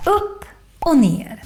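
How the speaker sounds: slow UPP OCH NER, tune following the words. Shown as a demonstration. Teacher tracing the acute accent's shape, up-down tune on "Upp och ner". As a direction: trace the rise and fall on "Upp och ner". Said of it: "It looks a bit like this".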